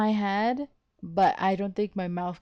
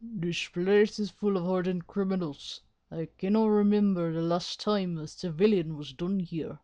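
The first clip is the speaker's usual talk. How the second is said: lightly Irish male prison governor; attempted Irish accent. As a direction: have a go at an Irish warden. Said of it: "that's the best I could do".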